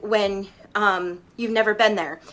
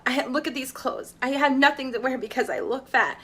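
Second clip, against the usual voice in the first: softer, hushed self-put-down; mock self-loathing; 5 dB quieter than usual. Guest voicing the inner critic, soft and hushed. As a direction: murmur it like the voice in your head. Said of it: "beating yourself down".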